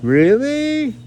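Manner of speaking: mock surprised squeak; voicing Augustine in a high squeak; squeaky high question. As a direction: shoot way up high on Really.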